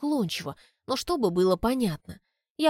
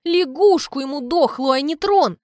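much higher and louder, furious; angry shout; 6 semitones higher, 8 dB louder than usual. A narrator's reading. The girl curses her father, furious shout. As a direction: hurl it out in fury. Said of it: "зло говорю".

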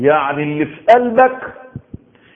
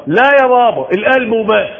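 whiny insistent daughter; 5 semitones higher, 4 dB louder than usual. Retold or imitated. Daughter argues back with father.

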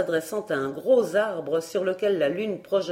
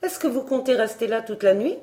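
higher, impatient challenge; testy question; 5 semitones higher, 3 dB louder, faster than usual. Acted. Barbara to the lingering tutor, testy. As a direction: ask it sharply, pitched up.

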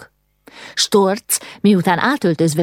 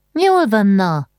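high, placating give-in; relenting after a quarrel; more conciliatory; 5 semitones higher, slower than usual. A narrator's reading. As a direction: back down in a raised, soothing pitch. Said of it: "folytatta békülékenyebb hangon".

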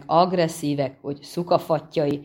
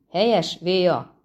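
a light call back across the bridge; mild raised call; calling back to Véa, lightly raised; 2 semitones higher than usual. Acted. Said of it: "kiáltott vissza három csóka".

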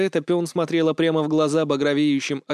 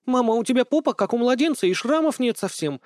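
put-on high astonished girlish voice; amazed daughter, pitched well up; ахнула; gasping in wonder; 10 semitones higher, 3 dB louder than usual. A narrator's reading. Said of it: "ахнула дочка".

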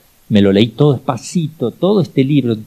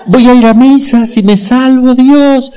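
high desperate shout to God; desperate cry; 14 semitones higher, 6 dB louder, slower than usual. Retold or imitated. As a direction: cry out to God trapped in the fire. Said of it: "Y gritó". (grito desesperado hacia Dios)

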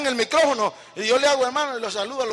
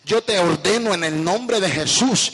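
commanding rebuke. Shown as a demonstration. Believer rebuking Satan out of house, rising commanding shout. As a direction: order the devil out, growing in force. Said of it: "se le habla con autoridad".

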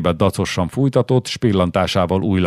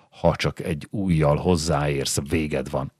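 "Ha csak egy ujjal hozzáérsz, véged van" hissed low and much softer, a menacing near-whisper; hissed threat; 3 semitones lower, 5 dB quieter than usual. Acted. Pregnant wife hisses a warning at her husband Miklós, hissed and much softer. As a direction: hiss the threat softly through the teeth.

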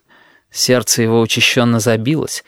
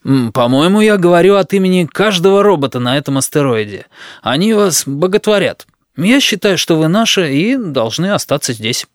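lightly raised eager suitor voice; a earnest suitor, a bit higher; Flezwell voice; 5 semitones higher than usual. Acted. Flezwell continues.

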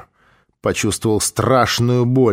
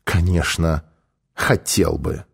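tender, lowered reply; 5 semitones lower, slower than usual. A narrator's reading. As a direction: answer gently in a lowered voice. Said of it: "нежно произнёс".

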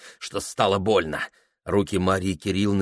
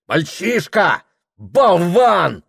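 angry father; 9 semitones higher, 7 dB louder, much slower than usual. A narrator's reading. Father berates son.

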